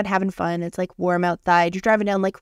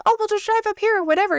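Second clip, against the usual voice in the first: much higher, fast carefree husband voice; imitating husband; 14 semitones higher, faster than usual. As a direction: toss it off breezily, as the clueless husband. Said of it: "And my husband's like".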